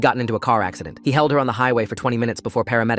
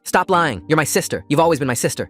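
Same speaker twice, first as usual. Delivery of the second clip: screamed; 5 semitones higher than usual. Acted. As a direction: scream it, refusing to hear. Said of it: "he screamed".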